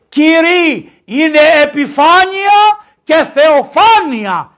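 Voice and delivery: high, loud, drawn-out pulpit cry; emphatic proclamation. Real, not acted. Preacher corrects empty greetings with Epiphany, loud emphatic proclamation. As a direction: proclaim it forcefully, stretching the end.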